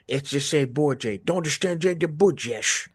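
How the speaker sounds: slow, lightly put-on Russian accent; a hint of a Russian villain. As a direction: drawl it like a Russian thug. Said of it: "'cause he's Russian".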